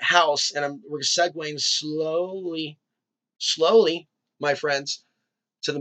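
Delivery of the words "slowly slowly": slowly stretched out word; drawn out. Real, not acted. Host easing listeners toward the movie plot, drawn out. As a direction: stretch SLOWLY out, then repeat it. Drawls the word while segueing.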